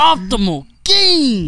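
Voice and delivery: pumped-up gym-bro catchphrase; hyped catchphrase. Retold or imitated. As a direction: belt "Optimal gains" like a hype-man slogan. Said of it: "that's more like it".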